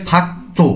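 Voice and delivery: ফাক্তো with a hard t, not d; t for digut. Shown as a demonstration. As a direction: say ফাক্তো, second syllable on a tense t. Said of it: "দিগুতটিকে ত এর মতো উচ্চারণ করব".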